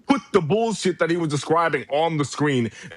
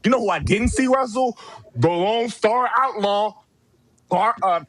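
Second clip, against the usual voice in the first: raised-pitch furious tirade; furious rant; 4 semitones higher than usual. Real, not acted. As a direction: tear into him, higher and heated. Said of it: "I'm shaking with rage".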